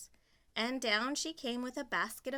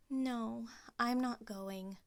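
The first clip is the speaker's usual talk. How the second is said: sad; slower than usual. Acted. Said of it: "said Cinderella sadly".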